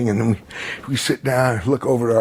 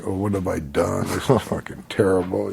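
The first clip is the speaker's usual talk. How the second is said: mild mock sulk; retold self-pitying pout; 3 semitones lower than usual. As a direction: grumble it with a pout, lightly acted. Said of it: "I'm just pouting".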